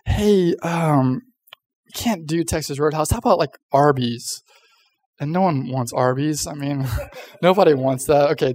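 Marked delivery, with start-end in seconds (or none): 0.1-4.4 hesitant, softening letdown after a lifted "hey"; reluctant rejection. Retold or imitated. Parents turning down the kid's restaurant choice, reluctant. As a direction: let them down gently, stalling on the um. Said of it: "I was afraid they'd be like".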